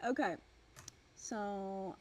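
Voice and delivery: muffled, as if into a cup; speaking into a cup. Real, not acted. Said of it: "sound like you're talking into a cup".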